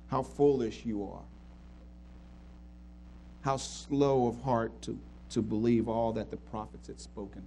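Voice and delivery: low, measured reproach; gentle rebuke. Acted. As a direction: correct them kindly, voice kept low. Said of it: "but it was gentle".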